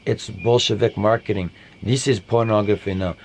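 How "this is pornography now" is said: put-on Russian accent. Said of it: "That's my Russian imitation".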